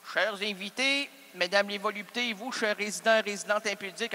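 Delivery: hammed-up variety host opening the show; mock host welcome.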